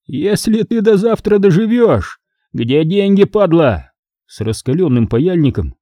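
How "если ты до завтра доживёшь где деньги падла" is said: mild mock yell. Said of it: "заорал Санёк".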